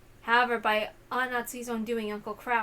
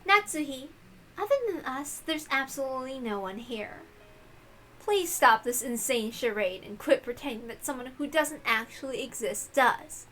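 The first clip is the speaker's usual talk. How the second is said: mocking; 3 dB quieter than usual. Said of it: "Erica laughed mockingly".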